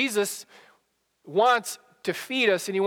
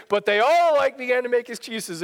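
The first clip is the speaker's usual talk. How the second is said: put-on German accent; 2 semitones higher than usual. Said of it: "in his thick German accent".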